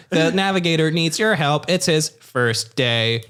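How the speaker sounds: slow, lightly voiced robot; a hint of a deadpan machine. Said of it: "then the robot's like".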